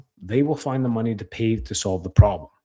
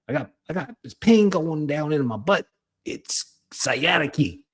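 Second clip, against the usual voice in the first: higher-pitched mock patient voice; complaining patient; 5 semitones higher than usual. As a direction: imitate a patient moaning about sciatica. Acted patient complaining of sciatica.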